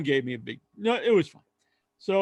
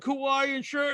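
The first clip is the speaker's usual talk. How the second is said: excited answer; 9 semitones higher, slower than usual. Retold or imitated. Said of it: "And he's like".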